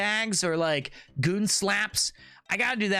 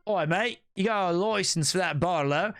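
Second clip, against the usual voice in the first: attempted Aussie accent; playful Australian slang voice. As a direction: challenge a mate in amateur Aussie. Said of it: "I'm getting there, though".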